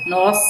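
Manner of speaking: "nós" said without any glide; "nós" as written, not "nóis"; standard pronunciation. Shown as a demonstration. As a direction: correct yourself to a clean "nós". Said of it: "em vez de ser o nós".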